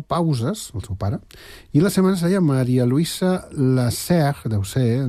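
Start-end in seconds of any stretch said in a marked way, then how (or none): 3.5-4.5 "Lasserre" said as a French surname; "Lasserre" with an approximate French r; attempted French pronunciation. Shown as a demonstration. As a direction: try a French accent on "Lasserre". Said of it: "perdoneu la meva pronunciació del francès".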